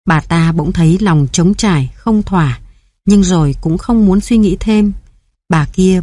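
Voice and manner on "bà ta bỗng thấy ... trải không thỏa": ordinary delivery, nothing marked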